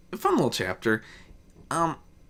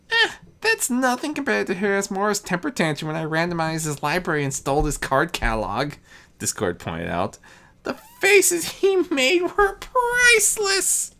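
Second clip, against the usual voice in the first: Discord as a boastful youth; 9 semitones higher than usual. Acted. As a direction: brag it like a mischievous young god. Discord's voice, held.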